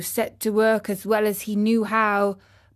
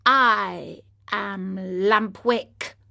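weak dying donkey; 2 semitones lower, much slower than usual. Acted.

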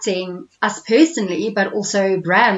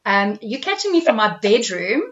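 boxed-in room sound; speaking from a closet; small room; 3 semitones higher than usual. Real, not acted. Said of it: "You sound like you're in a closet or some confined space".

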